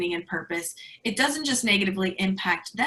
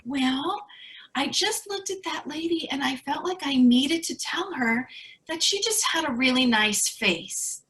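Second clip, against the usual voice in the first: imitating mom's voice; 5 semitones higher than usual. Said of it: "this is her voice".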